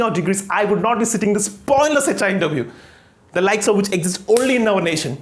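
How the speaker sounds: slow, emphatic English speech to an interviewer; indignant student candidate. Acted. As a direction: make the case in deliberate, formal English. Candidate answers pointedly in English. (नाराज़ छात्र, ठहर-ठहर कर अंग्रेज़ी में)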